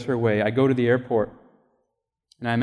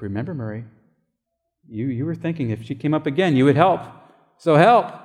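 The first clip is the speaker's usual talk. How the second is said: a gentle reminder that swells into an urgent push; building divine prompt. Retold or imitated. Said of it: "the Lord's like".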